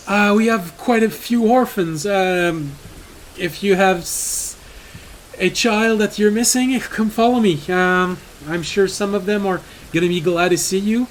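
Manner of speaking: lightly voiced caring priest; kind priest. GM voices priest about orphans.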